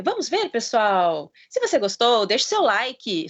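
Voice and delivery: lightly imitated video-presenter intonation; a hint of a presenter's rehearsed patter; YouTuber patter. Parent quotes son reciting video intros, mild YouTuber patter. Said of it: "Então, ele fala ... sabe aquela coisa assim".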